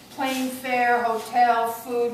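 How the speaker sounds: escalating scornful tirade; building anger. Acted. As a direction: pile up the costs, getting angrier. Character listing wasted costs angrily.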